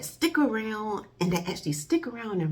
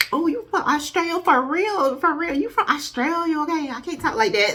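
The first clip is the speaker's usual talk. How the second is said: surprised; 8 semitones higher, 7 dB louder than usual. Retold or imitated. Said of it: "it's like".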